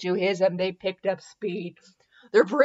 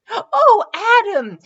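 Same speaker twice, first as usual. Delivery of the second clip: sudden high cry of joy; ecstatic cry; 12 semitones higher, 6 dB louder than usual. Acted. Belle to Adam as he unties her, a high cry. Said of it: "she cried".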